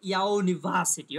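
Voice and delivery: "ইউনিভার্সিটি" drawn out, with the VA syllable punched hardest; stressed pronunciation demo. Shown as a demonstration. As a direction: model "ইউনিভার্সিটি" slowly, main stress on VA. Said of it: "উচ্চারণটা হবে".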